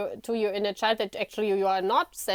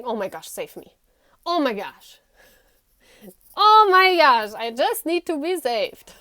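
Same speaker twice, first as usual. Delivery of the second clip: panicked plea; 6 dB louder than usual. Retold or imitated. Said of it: "You're saying".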